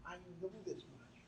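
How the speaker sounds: hushed echo; soft repeat. Shown as a demonstration. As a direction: say it again gently, inward. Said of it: "And I know this much".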